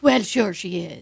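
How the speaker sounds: loud, breezy Irish agreement; Irish accent. Retold or imitated. Irish locals confirming she is their queen, Irish accent. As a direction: agree emphatically in an Irish brogue. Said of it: "And the Irish were like".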